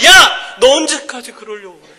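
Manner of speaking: mother yelling at grown son through the door, a laughing mock yell; nagging mother's yell. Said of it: "막 그러고".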